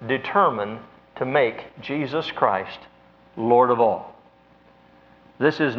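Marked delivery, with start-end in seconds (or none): 0.1-4.1 determine drawn out slow and weighty; stress on determine. Shown as a demonstration. Preacher stressing determine to his congregation. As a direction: lean hard on the word determine. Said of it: "the emphasis I'm making is on this first word".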